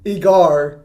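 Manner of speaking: "Igar" repeated with a firm final R; hard R. Shown as a demonstration. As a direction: sound the R at the end of "Igar" hard. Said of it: "put it with a hard R".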